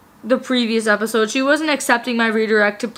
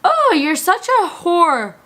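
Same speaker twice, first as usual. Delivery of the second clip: meme voice; 6 semitones higher, slower than usual. Retold or imitated. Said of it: "he was like".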